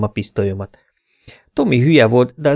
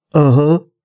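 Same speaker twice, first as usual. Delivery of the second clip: dim-witted louder coo of assent; babbling; 4 semitones higher, 5 dB louder than usual. A narrator's reading. Dim thug Tommy coos assent to his boss, babbling. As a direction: mumble yes like a slow brute. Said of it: "gügyögte Tommy".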